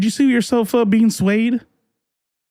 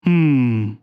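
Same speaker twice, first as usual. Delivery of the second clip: long, low, falling "hmm"; mock pondering hum; 6 semitones lower than usual. Streamer answering own railroad question, mock pondering. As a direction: hum low as if pretending to puzzle it out.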